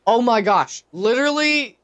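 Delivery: high, loud disbelief; exasperated. Real, not acted. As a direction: throw up your hands in disbelief. Companion vanishes suddenly.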